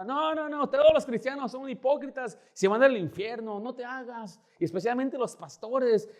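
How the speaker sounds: high, hammed-up indignant tirade; cursing rant. Angry woman denouncing Christians to the pastor, high mock rant. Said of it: "Me empezó a maldecir".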